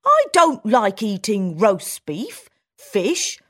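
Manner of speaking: country mouse voice. Acted.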